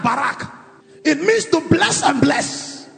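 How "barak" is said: quieter repeat of the Hebrew word barak; barak said again, softer. Shown as a demonstration. Preacher repeats barak softly to the congregation. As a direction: echo barak more softly. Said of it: "The word is barak".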